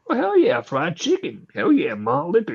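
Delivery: comic cheering through the door at his gift basket; excited. Retold or imitated. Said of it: "Getting more and more excited".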